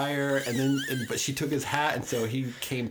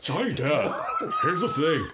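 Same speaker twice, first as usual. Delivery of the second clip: Heather Langenkamp impression; 3 semitones higher, 3 dB louder than usual. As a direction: squeal it out through laughter as Heather. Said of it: "my Heather Langenkamp impression".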